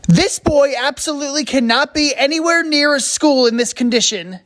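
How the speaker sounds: forceful, insistent declaration; emphatic ruling. Acted. Nurse bars sick boy from school, emphatic. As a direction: refuse with full authority.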